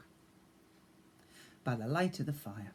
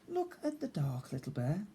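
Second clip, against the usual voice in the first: tender; 3 semitones higher than usual. Acted. Tender moment.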